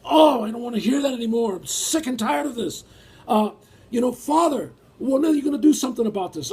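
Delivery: a weary believer crying out to God that he's sick of it; Lot's lament. Retold or imitated. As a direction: pour out your weariness to the Father like a fed-up righteous man. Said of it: "And he goes".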